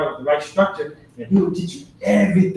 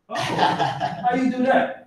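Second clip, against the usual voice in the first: imitating amazed architect, higher and very slow, laughing; mock amazement; 9 semitones higher, much slower than usual. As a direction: stretch it out in mock wonder. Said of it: "he was all like".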